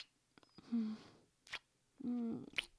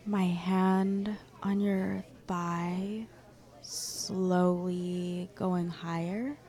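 slow seductive; 4 semitones lower, much slower than usual. Acted. Seductive teasing.

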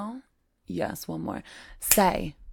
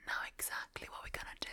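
fast, softer whisper; whisper in ear; 13 dB quieter, much faster than usual. Acted. Teacher whispering plans into her student's ear. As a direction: whisper it right into their ear. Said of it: "Let me whisper in your ear".

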